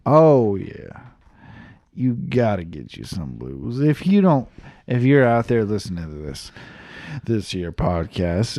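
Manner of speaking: put-on loose, playful Southern accent. Riffing on blues to listeners, Southern accent. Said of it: "went out of the accent".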